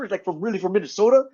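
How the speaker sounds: a hint of the cocky MC character. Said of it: "And I was like".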